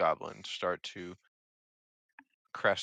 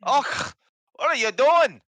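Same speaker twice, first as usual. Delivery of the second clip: high, loud, brash goblin voice; loud hobgoblin; 11 dB louder than usual. Acted. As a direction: bark it out like a pushy hobgoblin.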